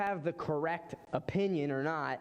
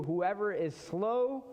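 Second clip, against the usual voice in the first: scripture reading. Acted. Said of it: "it says this in Proverbs".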